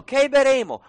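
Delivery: loud, high cry of protest; grumbling complaint. Retold or imitated. Thirsty people of Israel grumbling at Moses, loud complaint. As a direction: complain loudly, voicing an aggrieved people. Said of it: "il popolo mormorò contro Mosè".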